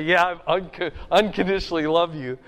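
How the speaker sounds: fast, stumbling rush over the big word; hard to say. Retold or imitated. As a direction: blurt the promise out in a hurry. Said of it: "It's kinda hard to say".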